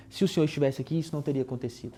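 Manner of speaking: quiet, meek lament fading away; soft, resigned. Shown as a demonstration. Pastor showing the meek reading he rejects, soft and resigned. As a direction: murmur it as if accepting the loss. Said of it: "não consigo ler esse texto nesse tom".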